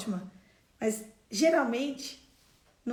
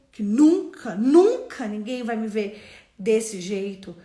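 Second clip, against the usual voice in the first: forceful declaration; 10 dB louder than usual. Real, not acted. Pregadora declarando com força.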